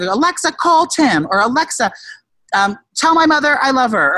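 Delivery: hollering commands at the speaker; mock drunk yelling. Drunk guy yelling orders at Alexa, mock shout. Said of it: "I like to scream at Alexa".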